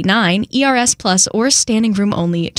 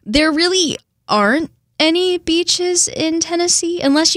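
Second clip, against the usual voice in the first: southern accent; 9 semitones higher than usual. Real, not acted. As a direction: let your Tennessee southern accent pop out. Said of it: "my southern accent pops out too hard".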